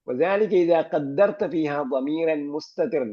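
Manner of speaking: slow textbook dictation of the rule; slow reading aloud. Shown as a demonstration. Teacher reading the grammar text to the class, slowly. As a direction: read each Arabic word slowly and deliberately.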